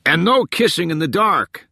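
high-pitched heckle from the crowd; joking yell. A narrator's reading. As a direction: holler the wisecrack across the room. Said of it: "someone yelled".

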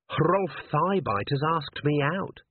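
high, slow, shy confession. Acted. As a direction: admit it bashfully, drawing it out. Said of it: "said Cherie shyly".

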